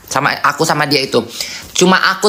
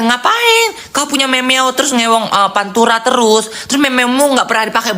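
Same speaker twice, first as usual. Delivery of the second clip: teguran tinggi yang dibuat-buat; 6 semitones higher than usual. Retold or imitated. Mengutip diri menegur teman.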